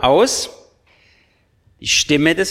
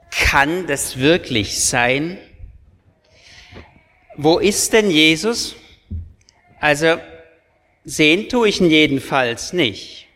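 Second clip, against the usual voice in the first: voice of doubt. Acted. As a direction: voice it like a question mark. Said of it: "das waren jetzt zwei Stimmen".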